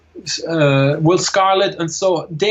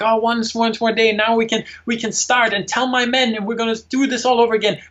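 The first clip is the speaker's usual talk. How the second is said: higher-pitched, eager imitation of Robin; retold enthusiasm; 5 semitones higher than usual. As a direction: act out his hopeful rallying of the men. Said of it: "Robin is full of enthusiasm".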